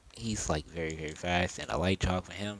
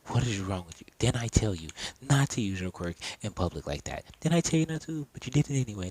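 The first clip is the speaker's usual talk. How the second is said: mild mock scolding, rising higher toward the end; 3 semitones higher, 3 dB louder than usual. Mom scolding her son over using his quirk, mildly cross. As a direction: tell off a child, pitch climbing. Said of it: "starts to begin to scold him".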